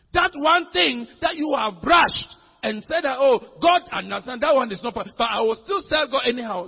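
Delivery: loud, emphatic sermon delivery; insistent preacher driving the point home; forceful preaching. Acted. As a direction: preach it hard, hitting the key words.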